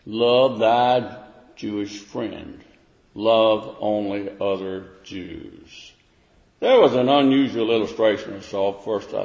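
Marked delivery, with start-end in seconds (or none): 0.1-5.9 slow, sung-out mocking paraphrase; mock sing-song. Preacher mocking the Jews' narrow reading, slow sing-song. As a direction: sing it back slowly, mocking their reading. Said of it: "The Jews interpreted that how?".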